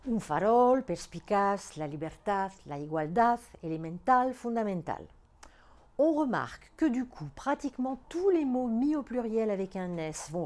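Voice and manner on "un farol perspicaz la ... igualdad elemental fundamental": farol, perspicaz, libertad stressed on ROL, CAZ, TAD; word list leaning on each final syllable, like farol and igualdad; stress on last syllable. Shown as a demonstration. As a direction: hit the end of elemental and fundamental. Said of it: "l'accent tonique sur la dernière syllabe".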